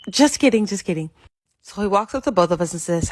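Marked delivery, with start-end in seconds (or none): 0.1-0.6 teasing. Retold or imitated. Teasing sister takes back jab. 0.7-1.1 soft, dropped repeat of the joke; under the breath. Retold or imitated.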